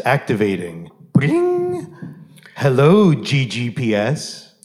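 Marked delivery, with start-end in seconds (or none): 1.1-1.9 high mock ring tone; ringtone. Device ringing as the call opens.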